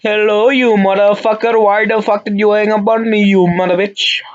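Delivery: mock angry. Yelling insults at scammer.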